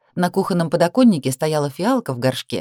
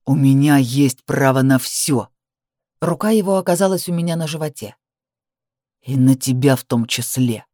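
low domineering growl; 3 semitones lower than usual. Acted. Man claims right over the woman, low growl.

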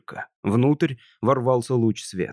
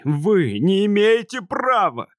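desperate protest; 7 semitones higher, slower than usual. Acted. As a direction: cry out in despair, pitched up. Tony protests to the machine.

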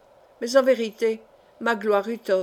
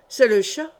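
exclaiming; 5 dB louder than usual. Acted. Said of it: "s'écria Magloire".

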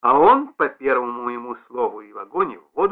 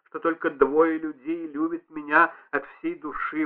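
ordinary delivery

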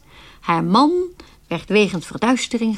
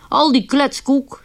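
higher, slow scoffing dismissal; dismissive husband; 4 semitones higher, slower than usual. Retold or imitated. Husband waving off superstition, slow and scoffing. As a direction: drag out Al die kletskoek with mild scorn. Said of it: "zegt hij dan".

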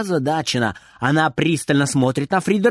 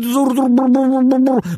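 higher, louder buzzing hoover noise; vacuum hum; 8 semitones higher, 4 dB louder than usual. A narrator's reading. Narrator imitates the vacuum cleaner, buzzing louder. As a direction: buzz like a running vacuum.

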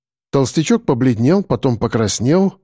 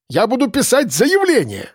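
high, outraged complaint; pompous man wailing about being beaten; indignant wail; 10 semitones higher than usual. Acted. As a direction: whine it up high like a wronged child. Complainer threatens a report.

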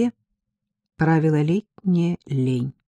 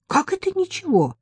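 outraged, much higher; raised voice; 14 semitones higher than usual. A narrator's reading. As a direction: voice jumps way up in disbelief. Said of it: "повысила голос Ирка".

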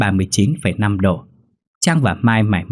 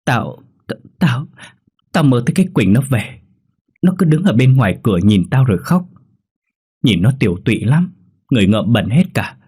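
stammered start, then higher upset account; hiccuping tearful telling; 4 semitones higher than usual. Acted. Girl tells friend her bad dream, hiccuping tearful telling. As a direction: recount it through mild sobs. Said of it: "Quyên nấc lên rồi kể lại".

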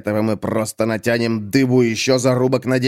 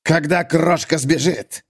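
slow grumble, pitched up; grumbled; 6 semitones higher, slower than usual. Acted. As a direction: grumble out the plan slowly. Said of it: "буркнул Крошка". (медленно буркнуть)

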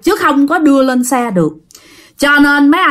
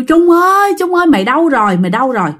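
calling out; 4 semitones higher, faster than usual. Retold or imitated. Cousins calling for missing brother.

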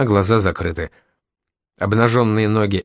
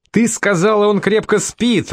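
yelling; 10 semitones higher than usual. A narrator's reading. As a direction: yell it at her in shock. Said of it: "орал парень".

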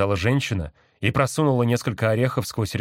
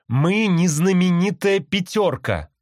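high, slow parrot echo; a parrot echoing its owner; parrot mimicking; 10 semitones higher, 5 dB louder, slower than usual. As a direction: drag it out like a bird copying speech. Parrot repeats the woman's words.

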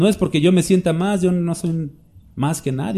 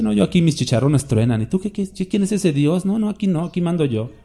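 boastful Pharaoh; 3 semitones higher than usual. Retold or imitated. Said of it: "Faraón, ¿no? Dice".

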